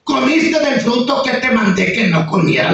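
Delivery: God questioning Adam, barely put on; God speaking. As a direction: ask it with a hint of divine authority. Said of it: "le dijo Dios".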